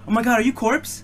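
high, loud mock girly squeal; imitating a gamer girl. Gamer mocking a girl fan on voice chat, high and squealy. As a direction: play up a starstruck girl on voice chat. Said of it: "and it's a girl".

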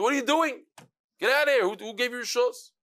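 angry scolding. Acted. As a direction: scold the intruders at the fridge. Father scolds people eating food.

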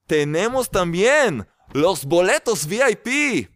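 high, drawn-out showman's reveal; excited announcement. Real, not acted. Host reveals VIP tickets to his audience, excited. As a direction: announce the big prize with gusto, slowly.

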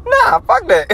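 high, loud mock-Russian outburst; Russian accent. Retelling a Russian YouTuber refusing to stop recording, loud Russian accent. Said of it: "his Russian accent be killing it".

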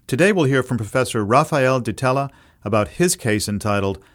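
measured documentary-style intro read with lifted key words; scripted podcast narration. Acted. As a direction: narrate the history like a polished radio host. Host reads scripted podcast introduction.

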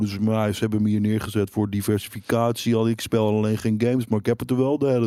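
a lightly voiced, sleepy old woman at a keynote; imitating old woman. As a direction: play a drowsy grandma who doesn't know why she's on stage. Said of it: "Zat er gewoon een beetje zo te praten".

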